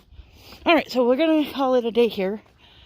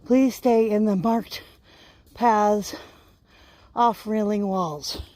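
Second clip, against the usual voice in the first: reading a sign aloud; much slower than usual. Pretend. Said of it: "Well, what fun is that?".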